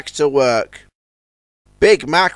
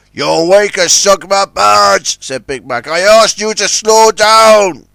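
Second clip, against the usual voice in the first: slow, loud reproaching voice; reproachful; 4 semitones higher, 7 dB louder than usual. Acted. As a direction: tell him off firmly. Scolding after barge sank.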